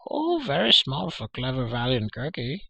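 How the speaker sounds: high creature wheedle, falling at the end; pleading Gurgi. A narrator's reading. Creature begs a tiny snack, pleading. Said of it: "Gurgi pleaded".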